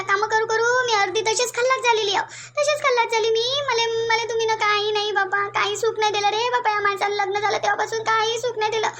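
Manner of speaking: acted, mildly wailing self-pity; plaintive mock-crying complaint; tearful lament. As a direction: lament your hard married life, drawing words out. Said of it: "आई, आई, रडू नको आई".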